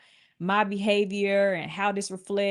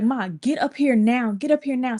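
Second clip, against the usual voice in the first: urgent demand; 4 semitones higher than usual. Retold or imitated. Acting out urgent call to mom.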